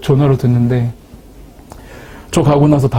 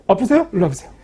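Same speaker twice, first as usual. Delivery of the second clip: higher, beckoning like a showy healer; mock faith healer; 3 semitones higher, 4 dB quieter, faster than usual. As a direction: lure the sick in, tongue in cheek. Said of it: "그래서 보면은". (치유 사역자 흉내를 장난스럽게)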